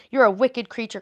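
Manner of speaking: cried out. A narrator's reading. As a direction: cry it out at the witch. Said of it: "cried Dorothy".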